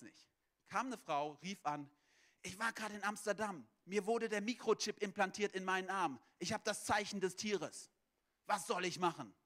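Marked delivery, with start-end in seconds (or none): 2.4-9.3 mock-alarmed caller, pressing and raised a little; imitated panicked caller. Woman phoning the church office about a microchip, imitated panic. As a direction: play a mildly hammed-up panic on the phone. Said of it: "Die war voll panisch".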